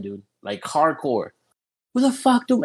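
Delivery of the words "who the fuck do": retold yell. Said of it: "she starts yelling".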